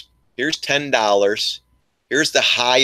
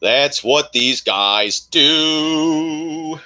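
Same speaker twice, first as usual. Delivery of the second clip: slow drawn-out repeat; 3 semitones higher, much slower than usual. Real, not acted. Repeating to viewers, stretched very slow. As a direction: drag the line out for emphasis. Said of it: "drawn-out repeat".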